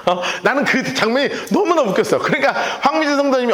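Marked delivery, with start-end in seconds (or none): none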